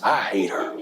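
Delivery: "I hate her" muttered with cold conviction; low, bitter "I hate her". Retold or imitated. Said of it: "And she meant it".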